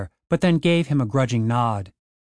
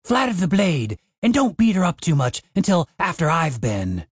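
giddy; 4 semitones higher than usual. Acted. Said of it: "He sounded almost giddy".

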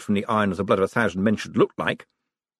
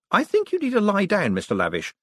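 lightly cheerful, higher-pitched suggestion; 10 semitones higher than usual. A narrator's reading. Moist humouring a feverish, armed man, cheerful. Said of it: "said Moist cheerfully".

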